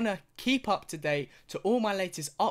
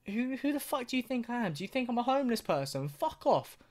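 higher, indignant mock rant at dad; imagined angry outburst; 6 semitones higher than usual. Son rants at dad over a small birthday gift, mock outrage. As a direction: play the outraged kid, pitched up. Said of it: "I'd be like".

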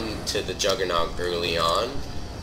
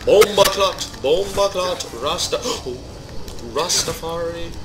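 hammed-up Jamaican celebration, much higher; mock Jamaican patois cheer; 8 semitones higher than usual. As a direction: whoop it up in a joking Jamaican accent. Celebrating a rare pickup.

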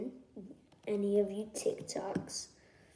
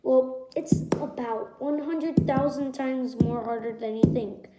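exasperated; 3 semitones higher, 6 dB louder than usual. Real, not acted. Frustrated rant about YouTube views.

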